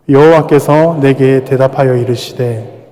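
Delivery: slow, measured scripture recitation; scripture reading. Acted. Pastor leads the church reading Habakkuk two, slow recitation. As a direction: draw each phrase out together. Congregation reads scripture slowly.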